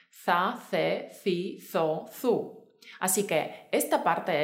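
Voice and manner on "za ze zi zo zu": Za, ze, zi, zo, zu with a TH sound for each Z; Castilian Z sound. Shown as a demonstration. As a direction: lisp each Z in Za, ze, zi, zo, zu, tongue between teeth. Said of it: "se pronuncian todas con el fonema Z".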